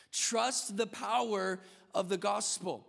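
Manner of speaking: slow, weighty repeat; repeated point. Acted. Preacher repeating his point slowly for weight. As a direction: let the phrase land.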